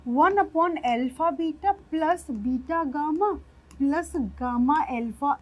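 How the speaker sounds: slow, careful dictation of the wrong form; wrong way, slowly. Shown as a demonstration. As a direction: spell out the mistake word by word, slowly. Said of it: "जो सरासर गलत है". (गलत तरीका धीरे-धीरे बोलते हुए)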